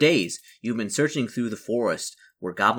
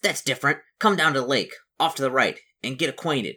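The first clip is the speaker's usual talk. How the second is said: lightly squeaked, raised-pitch goblin voice; squeaky goblin; 3 semitones higher, 3 dB louder than usual. Acted. Goblin invites newcomer down to the lake, lightly squeaky. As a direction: squeak it a little as a welcoming goblin. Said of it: "the voice squeaks".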